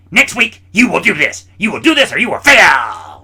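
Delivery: high, mock stern teacher ultimatum; imitating a ticked-off teacher's threat. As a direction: lay down the law like a ticked-off teacher. Angry teacher voiced in story.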